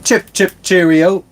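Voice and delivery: high, quick mock British accent. A viewer asks for a British accent, so he hams one up. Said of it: "I cannot do a British accent".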